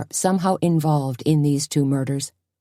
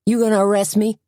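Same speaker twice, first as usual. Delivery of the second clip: huffed; 6 semitones higher, 3 dB louder, faster than usual. A narrator's reading. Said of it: "Odell huffed".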